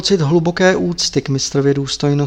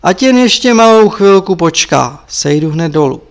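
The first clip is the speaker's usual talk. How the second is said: calling out; 2 semitones higher, 5 dB louder than usual. Acted.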